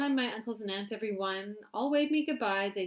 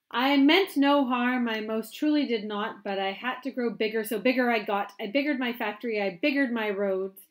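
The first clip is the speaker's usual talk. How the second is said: boastful Once-ler; 3 semitones higher, 12 dB louder than usual. Acted. Reading to a child as the proud Once-ler. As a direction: crow about biggering everything.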